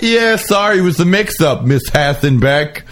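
high, falsely sweet apology; mock apology. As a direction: fake a polite sorry to brush her off. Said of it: "They were like".

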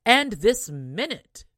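loud, slow scolding command; angry mother. Acted. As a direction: snap the order at the rude daughter. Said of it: "said the mother".

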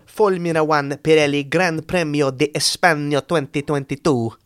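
attempted Spanish accent. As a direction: announce the race title in a put-on Spanish accent. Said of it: "I feel like my Spanish".

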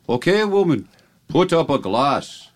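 stage-Irish order, high then slowing; drawn-out Irish-accented demand; horrible Irish accent. Acted. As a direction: command her in a hammy Irish brogue. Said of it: "your horrible accent that makes the joke".

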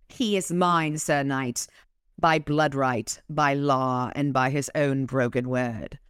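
amateur English accent, reading a story. Shown as a demonstration. Fairy claiming Harry from the knight, English accent. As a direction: read on in a put-on English accent. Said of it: "I used an accent for you".

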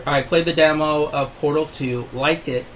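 talking around a toothpick in the mouth; words slightly blocked by a toothpick held in the mouth. Real, not acted. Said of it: "Sorry, I have a toothpick in my mouth".

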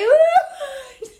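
very high, loud, eerie sing-song croon; creepy gremlin voice. Retold or imitated. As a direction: wake the sleepers like a spooky little gremlin. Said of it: "like a gremlin".

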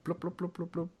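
soft gurgling blub blub noises; soy milk pouring impression. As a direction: imitate milk glugging out of a carton. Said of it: "my impression of soy milk being poured".

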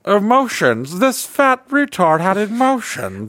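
high, drawn-out disbelief; slow, incredulous imitation of an amazed discoverer; mock astonishment. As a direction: marvel at it in a high, stretched-out voice. Imitating aliens amazed at the download.

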